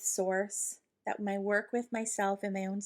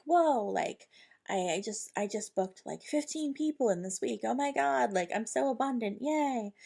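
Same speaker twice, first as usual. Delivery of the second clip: mock excitement; 2 semitones higher than usual. Imagined thrilled self, busy week.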